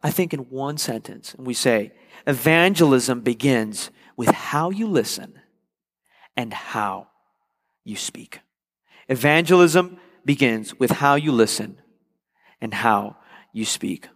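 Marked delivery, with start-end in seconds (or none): 2.3-8.4 slow, deliberate weight on "how"; stress on "how". Shown as a demonstration. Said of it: "notice the emphasis on the how". 9.1-14.1 deliberate emphasis on each "how"; stress on "how". Shown as a demonstration. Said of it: "notice the emphasis on the how".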